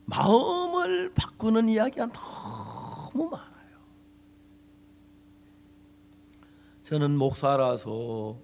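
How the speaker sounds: slow, weighty sermon delivery; preaching. Acted. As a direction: lean into each phrase from the pulpit. Pastor preaching, slowed. (천천히 힘주어 설교하는 목소리)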